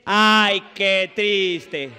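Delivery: loud, drawn-out mock lament; exaggerated pity. Shown as a demonstration. Comedian coaches audience to pity the napkin, exaggerated lament. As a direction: demonstrate it big for the crowd. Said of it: "ustedes tienen que decir".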